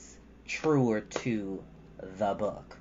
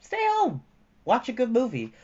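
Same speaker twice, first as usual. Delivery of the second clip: bright advice; 11 semitones higher, 4 dB louder than usual. Real, not acted. Cheerful advice to viewers.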